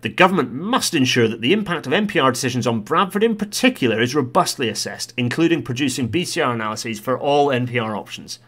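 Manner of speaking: lightly put-on committee reader, insistent; Transport Select Committee voice. Vlogger reading the committee's demand to government, lightly voiced committee style. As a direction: read it as a formal demand, lifting the key words. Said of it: "Transport Select Committee voice".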